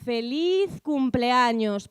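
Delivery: a lightly voiced frail grandmother, drawn out slowly; old grandmother stretching out her birthday wish; grandmother's slow greeting. Grandmother answering her family, lightly voiced, slow. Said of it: "Repita eso, abuela".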